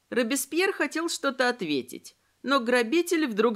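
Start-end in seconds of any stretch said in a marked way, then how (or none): none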